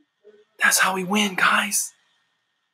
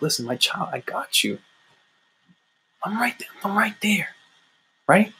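softer, hushed comforting voice, whispering I'm right there; God calm; 4 dB quieter than usual. Retold or imitated. Preacher voicing God comforting a desperate believer, soft and hushed. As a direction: hold them close and soothe. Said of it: "God's voice is so calm sometimes".

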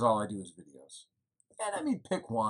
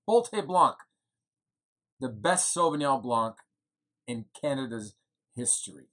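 proud proclamation; 3 dB louder than usual. Acted. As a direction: call out Bolte Blanc like a slogan. Proclaiming the new wine again.

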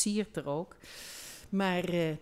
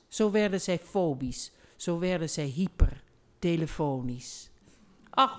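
reading a rhyming love poem aloud, rhythmic and lively; a performed poetry reading with small character voices; poem recital. Acted. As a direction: recite it with voices for both lovers.

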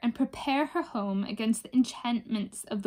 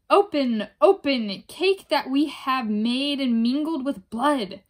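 raging cry; 3 semitones higher, 6 dB louder than usual. Acted. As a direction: shout it like a curse. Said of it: "they cried again".

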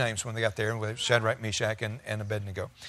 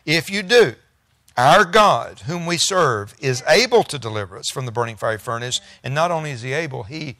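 defiant declaration; 4 dB louder than usual. Acted. Defiant believers answering the king.

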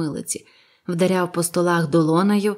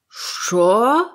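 loud, shocked high bellow; roar; 4 semitones higher, 4 dB louder than usual. A narrator's reading. Silver learns a pirate drank in his house, roaring "Що?". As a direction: roar it in outrage. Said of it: "заревів Сільвер".

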